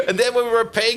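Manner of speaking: ordinary talk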